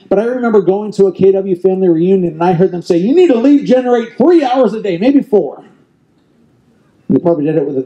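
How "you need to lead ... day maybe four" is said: higher-pitched mock southern accent. Quoting advice from a company reunion, mock southern accent. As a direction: lightly put on a southern US accent. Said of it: "that was my southern accent".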